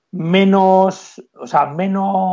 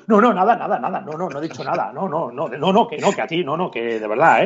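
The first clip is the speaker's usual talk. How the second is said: sheepish denial. Retold or imitated. Player denying to the referee he said anything, sheepish and hushed. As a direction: backpedal like a caught player playing innocent. Player backpedals, denies insult.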